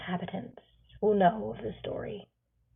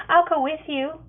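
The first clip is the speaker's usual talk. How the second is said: called down; 8 semitones higher, 5 dB louder than usual. A narrator's reading. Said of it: "Ravine calls down".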